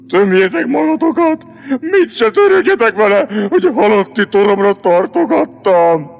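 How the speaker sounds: hammed-up martyred outburst; theatrical reproach; melodramatic lion. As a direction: wail it like a self-pitying doomed star. Lion dramatically laments his doom.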